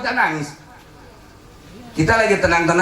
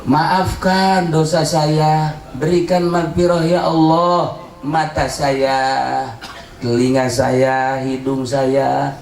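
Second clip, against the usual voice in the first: repentance prayer. Acted.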